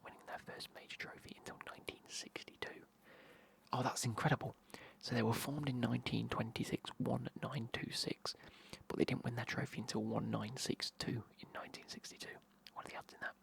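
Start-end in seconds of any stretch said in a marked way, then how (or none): 3.7-11.2 loud, eager stage whisper; excited whisper. Real, not acted. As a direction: whisper it with real amazement. Amazed by the club's history.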